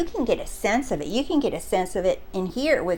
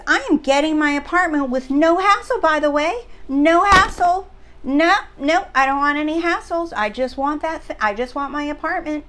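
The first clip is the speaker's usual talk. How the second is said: higher, emphatic retold demand; insistent declaration; 5 semitones higher, 3 dB louder than usual. Subscriber declaring she gets her apartment, insistent. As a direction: imitate her brooking no hassle, pitched up. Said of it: "that's the difference of".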